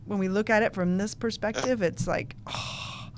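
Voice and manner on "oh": soft, breath-only "oh" of awe; awed gasp. Acted. Seeing it from this perspective, awed breathy gasp. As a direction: let out a hushed, awestruck breath. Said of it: "it's an awe-inspiring sort of".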